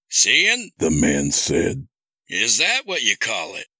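high, cold mocking villain; menacing villain. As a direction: toy with him like a killer. Villain man speaks.

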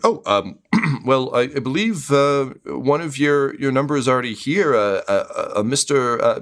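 halting, throat-clearing guard, rising in pitch later; hesitant guard. Acted. Guard telling caterers someone is already inside, hesitant. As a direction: hem and haw helpfully. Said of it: "the guards are like".

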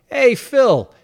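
loud, high New York street shout across the block; brash New York accent bellowed down the street. Retold or imitated. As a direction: yell it like a scummy New York guy. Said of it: "I put on a super New York accent".

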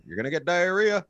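high, loud heckle; yelling. Retold or imitated. Man yelling at a stranger breaking into an ice cream freezer, yelling. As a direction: call out a warning at a stranger. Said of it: "I just kept yelling at him".

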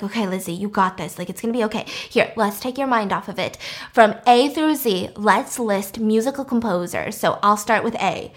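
calm her down gently; soothing. Retold or imitated. Friend soothes sick friend.

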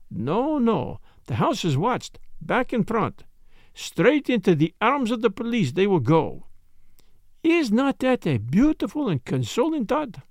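put-on mild reproof in a lightly accented voice; Poirot. Detective addressing the cursing Italian, mild reproof. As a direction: chide him calmly and deliberately. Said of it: "in a tone of mild reproof".

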